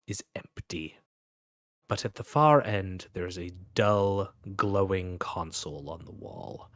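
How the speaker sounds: game master scene setting; scene narration. Acted.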